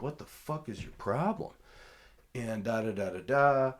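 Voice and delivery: high, sharp indignant challenge; angry retort. Retold or imitated. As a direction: throw it back at him, annoyed. Angry confrontation with opponent.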